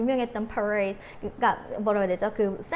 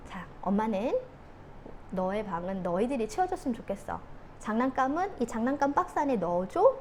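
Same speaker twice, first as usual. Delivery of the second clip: calm, patient mother. Acted. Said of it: "이 이야기를 하고 싶었을 거예요".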